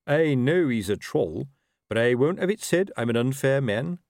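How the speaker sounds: lightly voiced commanding officer, pitched a little up; officer instructing a corporal. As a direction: give orders as the superior officer.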